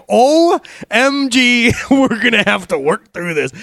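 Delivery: high, loud, drawn-out exasperation; mock dismay. Dad reacts to toddler's defiance, hammed-up loud dismay. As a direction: overplay a parent's shocked despair. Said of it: "I'm like".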